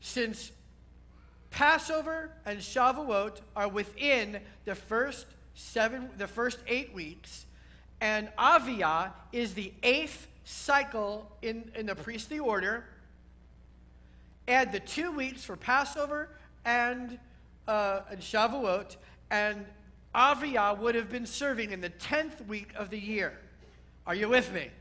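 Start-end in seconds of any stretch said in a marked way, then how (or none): 0.0-19.6 slow, phrase by phrase for note-takers; measured dictation pace; slow repeat. Shown as a demonstration. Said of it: "I'll say it again slowly". 20.1-23.4 measured pace, for people writing it down; unhurried dictation delivery; slow repeat. Shown as a demonstration. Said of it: "I'll say it again slowly".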